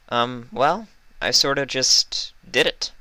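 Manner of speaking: Vinyl, blushing, answering Fluttershy sheepishly; embarrassed Vinyl. Acted. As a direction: admit it sheepishly.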